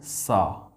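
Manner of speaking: teacher models "सा" for CY; sound demo. Shown as a demonstration. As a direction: sound out "सा" after the question. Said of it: "हम क्या बोल रहे हैं".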